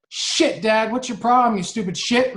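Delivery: mock rude outburst. Dad acting out his daughter swearing at him, mock angry. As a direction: toss the insult at him, hammed-up. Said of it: "But if she was like".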